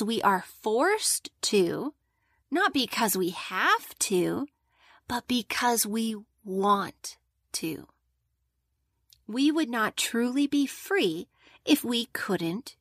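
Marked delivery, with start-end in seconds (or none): 5.1-7.9 whisper. Acted. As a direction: lean in and whisper it. Emphasizing choice to children.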